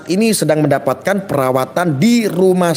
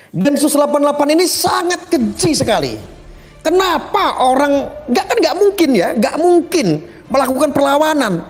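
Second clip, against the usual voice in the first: higher-pitched, lightly acted protest; imitating indignant critics; 6 semitones higher than usual. Presenter retelling critics' claims about the shooting, imitated indignation. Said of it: "ada lagi yang beranggapan bahwa".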